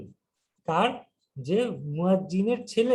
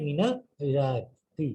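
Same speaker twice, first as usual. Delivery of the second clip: মিনাল ইরাকি spelled out very slowly, rising on মিনাল; slow deliberate model; 3 semitones lower, much slower than usual. Shown as a demonstration. Teacher models মিনাল ইরাকি slowly for students. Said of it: "কোথা থেকে?".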